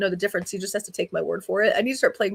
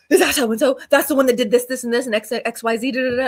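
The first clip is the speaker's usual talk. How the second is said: eager gossip; 3 semitones higher, 4 dB louder than usual. Retold or imitated. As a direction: imitate an eager partner spotting someone. Retelling partner's eager gym gossip.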